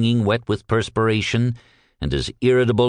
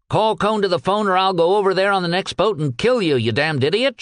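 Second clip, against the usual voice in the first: shriek; 9 semitones higher than usual. Acted. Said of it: "shrieked Peck".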